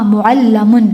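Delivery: "معلمن" said mu'allamun, with an a before m; passive participle vowels. Shown as a demonstration. Teacher demonstrates passive participle, "معلمن" as mu'allamun. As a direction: give "معلمن" the mu-a sound: mu'allamun. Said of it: "موآ،".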